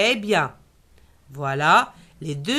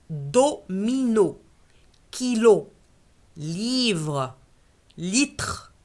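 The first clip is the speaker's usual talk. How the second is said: modelling a word list; slower than usual. Shown as a demonstration. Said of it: "teacher models word list aloud".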